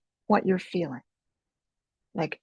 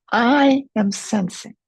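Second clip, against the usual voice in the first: slow demo phrase; 3 semitones higher, slower than usual. Shown as a demonstration. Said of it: "Put that at the start of your sentence".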